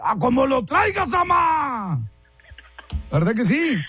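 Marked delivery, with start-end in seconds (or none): 0.0-2.0 high catcall; mock street catcall. Host imitates a man catcalling her in the street, high mock catcall. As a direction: call it out like a guy on the street. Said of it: "que te dicen?".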